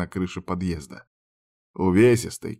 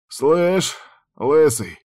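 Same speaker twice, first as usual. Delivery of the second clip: hoarse croak; 5 semitones higher, much slower than usual. A narrator's reading. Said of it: "прохрипел мужик".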